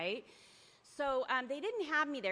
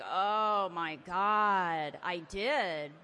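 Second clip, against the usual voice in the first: loud startled "oh my God"; shocked realization; 9 dB louder, much slower than usual. Retold or imitated. Telling the sponsor, suddenly realizing the omission, shocked. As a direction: blurt it out, caught off guard.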